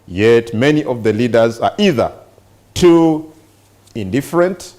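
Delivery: measured news-reading voice, slowing between phrases; reading aloud. Real, not acted. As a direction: read the report out deliberately, with pauses. Reads a newspaper report aloud.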